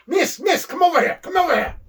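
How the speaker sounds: high, loud call across the diner; yelling for waitress. Retold or imitated. Fuji to the waitress, calling her loudly and high. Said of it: "And he yells".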